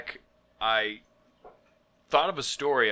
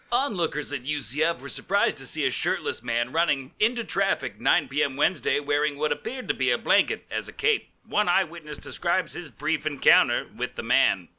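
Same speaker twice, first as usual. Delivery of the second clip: measured reporter's delivery; news article read. Pretend. Host reads his own story, mock news report. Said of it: "as if it was a news article".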